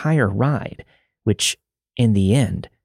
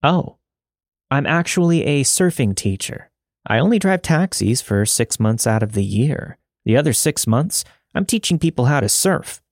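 high, bubbly, chipper switch; suddenly all sunny and upbeat; 5 semitones higher than usual. Acted. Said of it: "in a bubbly and chipper manner".

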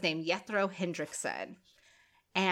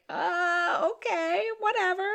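dismissive; 12 semitones higher, slower than usual. Retold or imitated. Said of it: "He's just trying to be like".

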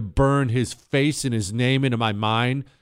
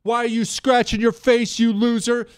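high-pitched, forceful barked orders; imitating in-your-face yelling; yelling drill instructor; 10 semitones higher, 3 dB louder than usual. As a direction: berate a recruit like a drill instructor. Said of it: "they're yelling so loud".

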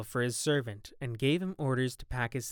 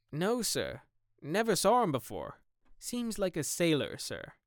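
gamekeeper voice; 6 semitones higher than usual. Acted. Gamekeeper reports the stranger.

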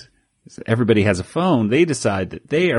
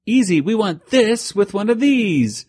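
much higher, cartoon character; 10 semitones higher than usual. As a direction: pipe it up like a zany toon.

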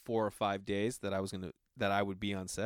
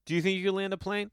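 asked again much higher; 9 semitones higher than usual. Shown as a demonstration. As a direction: repeat "Do you think you could land a plane?" pitched way up, pressing. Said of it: "this is what I would ask them".

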